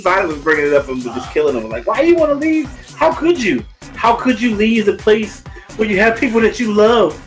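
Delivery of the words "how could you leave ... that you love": ordinary delivery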